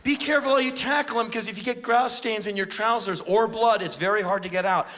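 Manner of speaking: a hint of a fussy, dainty spectator; lightly voiced delicate fan worrying about stains; prissy fan. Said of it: "you don't go".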